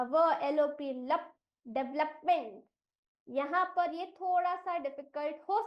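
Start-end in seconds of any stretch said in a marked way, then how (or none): 1.6-2.6 डेवलपमेंट built from डे, व, लप, मेंट; pronunciation demo. Shown as a demonstration. Teacher assembles the syllables, डेवलपमेंट as डे-व-लप-मेंट. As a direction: model डेवलपमेंट clearly, starting with डे. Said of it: "डीई का उच्चारण होगा डे".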